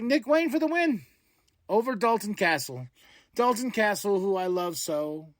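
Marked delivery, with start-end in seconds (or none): 0.0-2.9 announcer call. Retold or imitated. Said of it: "I was like".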